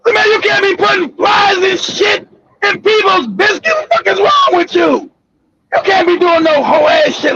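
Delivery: appalled coworker's protest; mock scolding. Acted scolding of brother.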